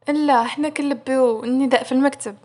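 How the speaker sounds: a touch of smirking sarcasm; mocking. Aroua teasing Ayat about the toilet, mildly mocking. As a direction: answer with mild, smiling mockery. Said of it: "وهو مبتسم باستهزاء".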